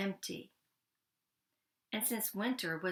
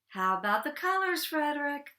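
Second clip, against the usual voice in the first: higher, louder anxious plea; 7 semitones higher, 5 dB louder than usual. Acted. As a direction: ask with nervous hope. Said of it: "they asked anxiously".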